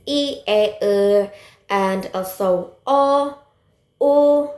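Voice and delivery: "E, A, E", "O", "U" as separate steady vowels; demonstrated monophthongs. Shown as a demonstration. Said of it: "For example".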